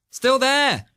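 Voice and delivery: high surprised call. Real, not acted. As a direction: exclaim it, exasperated. Caller still on line.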